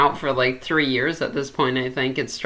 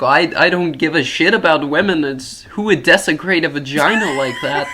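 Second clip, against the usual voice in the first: mock right-wing politician; 5 dB louder than usual. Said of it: "that's what right-wing politicians are like".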